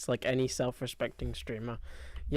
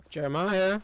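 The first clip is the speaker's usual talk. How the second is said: calling the name out loud across a space; 4 semitones higher, 4 dB louder than usual. Real, not acted. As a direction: call for him, voice raised. Calling out for missing companion.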